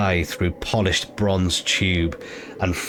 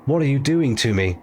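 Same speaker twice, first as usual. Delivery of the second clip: tearfully; 6 semitones higher than usual. A narrator's reading. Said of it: "he asked the crow tearfully".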